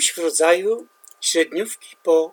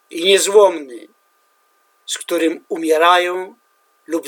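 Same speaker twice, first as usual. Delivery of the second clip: solemn, measured poetry reading, louder and higher at line openings; poem recital; 3 semitones higher, 9 dB louder than usual. Acted. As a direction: declaim it like a war poem at a reading. Reads his poem translation aloud.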